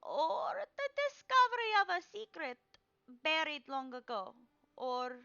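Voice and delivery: put-on high, loud old woman proclaiming; old crone seer. Crone reading Shadow's card, loud and high. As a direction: cry out each card like a mystic crone.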